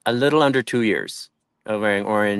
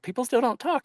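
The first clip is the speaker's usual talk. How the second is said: mild disbelief; 14 semitones higher, 5 dB quieter than usual. Retold or imitated. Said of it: "And I was like".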